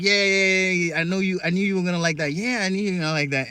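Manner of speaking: lightly voiced smug movie star rattling it off; Denzel Washington impression. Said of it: "the fucking thing from Training Day".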